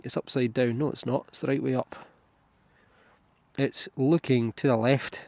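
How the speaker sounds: muffled through a scarf. Real, not acted. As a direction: speak muffled behind a scarf. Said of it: "Sorry if I'm a little bit muffled".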